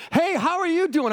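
put-on cheerful little boy. Imitating the confident boy greeting him in the woods. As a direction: chirp it like a bold five-year-old. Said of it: "He goes".

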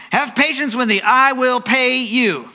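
high, slow begging; pleading. Acted. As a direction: beg for mercy. Servant pleading with master.

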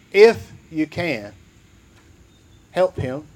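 "if you can" drawn out slowly with doubt; slow doubtful echo. Shown as a demonstration. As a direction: drag it out, unsure.

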